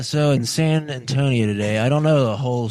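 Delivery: measured on-air news read; news reporter voice. Real, not acted. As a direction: read it like a TV anchor. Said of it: "You sound like a news reporter".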